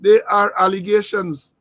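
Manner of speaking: each word of "they are allegations" firmly stressed; emphatic. Real, not acted. Host cautioning viewers about the tape, emphatic on "they are allegations". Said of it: "I'm emphasizing".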